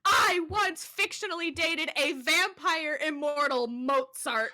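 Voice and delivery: high loud laughing. Real, not acted. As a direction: laugh as you say it. Laughing at her own past.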